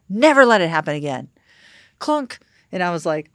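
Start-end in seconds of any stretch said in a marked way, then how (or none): 0.1-1.3 louder, firm mock warning; retold stern reprimand. 2.0-2.4 high little "clunk" for a phone hanging up; quick sound-effect word; imitated hang-up clunk.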